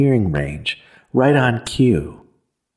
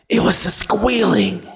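high, anguished cry of a tormented man; 9 semitones higher than usual. A narrator's reading. Haunted man cries out his excuse to the woman, anguished high cry. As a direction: wail it out, haunted by the noise. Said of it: "he cries".

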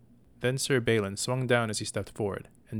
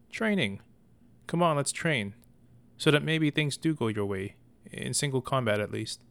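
encouraging; 4 semitones higher than usual. Acted. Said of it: "trying to encourage his brother".

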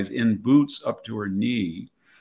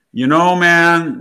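loud, high, drawn-out mock Valley Girl; slow, emphatic Valley Girl imitation; Valley Girl accent; 7 semitones higher, 12 dB louder, slower than usual. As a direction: imitate a Valley Girl, stretching each word. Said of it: "got into a Valley Girl accent".

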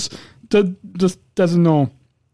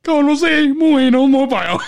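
laughing mock Siri; 5 semitones higher than usual. Mocking Siri's announcement, laughing.

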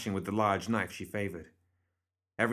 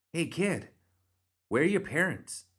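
much higher female character voice; coaxing a child; 9 semitones higher than usual. A narrator's reading. Bernadette to a small shadowy figure, coaxing. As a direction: call gently up to a stray child.

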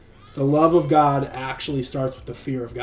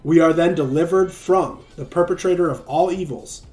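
sermon reading. Acted. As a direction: read it out like a devotional. Reads his blog like a sermon.

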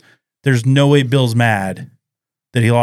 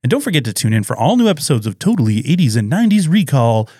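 radio voice; 2 semitones higher than usual. Acted. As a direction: sign off like a DJ. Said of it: "That's a really nice radio voice".

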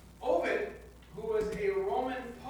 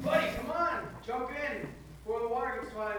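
raised calling voice, then easing off; called out from truck; 2 semitones higher than usual. Acted. Truck driver calls to the man on his porch, raised voice. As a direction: shout it over the flood, then settle. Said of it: "yells out".

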